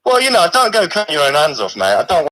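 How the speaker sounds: a lightly put-on, weak Australian accent; a mock Aussie bloke voice, barely there; poor Australian accent. A severed hand calls the stream in a poor Australian accent. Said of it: "So you've gone for an Australian".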